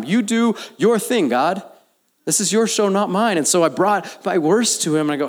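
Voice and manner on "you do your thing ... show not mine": much higher and louder, gleefully daring; bold challenge to God. Shown as a demonstration. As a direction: shout the dare up to God. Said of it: "I love challenging God in this way".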